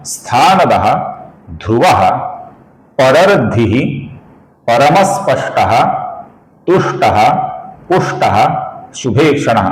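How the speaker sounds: slow, measured chanting of Sanskrit names; shloka recitation. Shown as a demonstration. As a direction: recite each name with a pause. (धीमा श्लोक पाठ)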